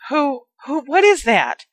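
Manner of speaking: high scared cry breaking into a shriek; frightened shriek. Acted. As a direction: shriek at the shape in the street. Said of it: "she shrieked".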